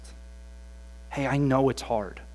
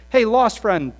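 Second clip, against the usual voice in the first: fading zeal; 6 semitones higher, 10 dB louder than usual. Retold or imitated. Student two weeks after camp.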